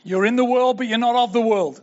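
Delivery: imitating a stern warning to teenagers, not really shouted; a mild, retold telling-off; mock preacher's admonition. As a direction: recite "You're in the world" like a drilled-in rule. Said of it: "being shouted at me time and time again".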